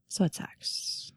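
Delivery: hushed, slow, whispered resignation; real whisper. Real, not acted. Owner whispering that her sick cat's news sucks. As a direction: barely breathe it out. After a sigh about sick cat.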